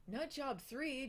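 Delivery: slow, high incredulous echo; surprised. Real, not acted. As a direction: repeat it in disbelief. Reacting to a fan question.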